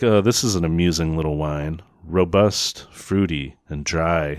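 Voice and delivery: lightly mock wine-snob patter; pretentious. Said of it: "like, pretentious and acting like he knows a lot about wine".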